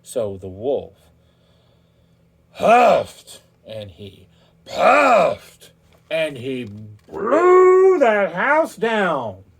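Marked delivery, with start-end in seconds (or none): 2.5-9.4 slow, loud, blown-out breathy words; huffing and puffing. A narrator's reading. Wolf blows down the straw house, slow loud huffing. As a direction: stretch it out like a huge blow.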